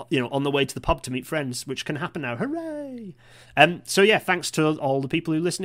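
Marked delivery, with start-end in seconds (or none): 2.4-3.2 mock cheer. Mock cheer about pubs.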